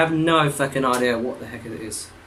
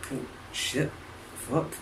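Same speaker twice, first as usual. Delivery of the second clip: softer whispered oath; whispered curse; 14 dB quieter than usual. Real, not acted. Caught out while setting up, a whispered curse. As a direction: breathe the curse under your breath. Quiet aside mid-recording.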